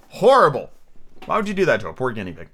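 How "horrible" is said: loud disgusted horrible. Real, not acted. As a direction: recoil on the word. Reader reacts to story horror.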